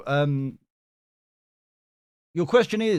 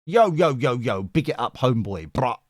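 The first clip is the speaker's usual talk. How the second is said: mock street slang. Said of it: "I don't know what that was".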